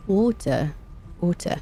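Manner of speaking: "Water" tested slowly as its own word; "Water" sounded out on its own, twice; own pronunciation of water. Shown as a demonstration. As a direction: say "Water" carefully in your own accent. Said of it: "how you say water".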